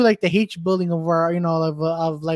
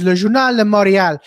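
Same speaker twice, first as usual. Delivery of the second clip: comedian's punchline in Quebec French, louder; Québécois French; 6 dB louder than usual. Retold or imitated. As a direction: deliver the name as a joke punchline. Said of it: "Sugar Sammy's joke".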